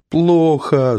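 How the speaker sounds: high, insistent "Плохо"; stubborn. A narrator's reading. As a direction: dig in your heels, high and small. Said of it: "заупрямилась та".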